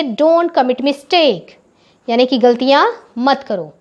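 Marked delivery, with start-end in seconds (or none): 0.0-1.5 very slow, deliberate classroom English; slow dictation. Shown as a demonstration. Teacher modelling the phrase slowly for her pupils. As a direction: dictate it word by word. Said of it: "इसको English में क्या बोलेंगे?".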